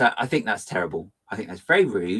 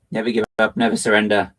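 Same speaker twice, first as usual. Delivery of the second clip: hammed-up heroic rallying cry, a touch louder; Galaxy Quest quote; 5 dB louder than usual. Streamer quoting Galaxy Quest, mock heroic. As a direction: declaim it like a starship captain. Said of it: "the Galaxy Quest".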